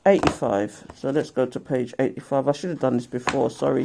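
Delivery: drowsy, barely awake; sleepy murmur, half asleep. Real, not acted. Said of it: "it's 'cause I'm half asleep".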